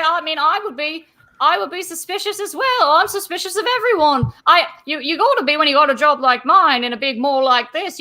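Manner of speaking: a jumpy constable who suspects everyone; a hint of a paranoid mall guard; Barnabas, defensive. Mall cop admitting suspicion.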